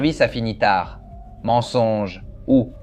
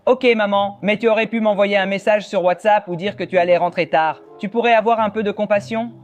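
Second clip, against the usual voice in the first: put-on whiny kid; 5 semitones higher than usual. Joue le fils face à maman.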